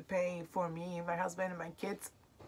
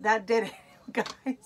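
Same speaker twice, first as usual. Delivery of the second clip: choked up; 3 semitones higher, 6 dB louder than usual. Real, not acted. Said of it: "I was holding it".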